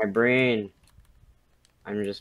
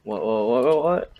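rising silly whats; 3 semitones higher, 5 dB louder than usual. Acted. Silly echo game of what.

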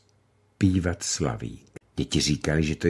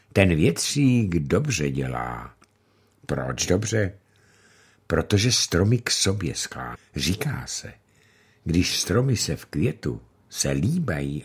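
lightly voiced grandmother; 3 semitones lower than usual. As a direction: soothe the child gently. Grandmother answers the children.

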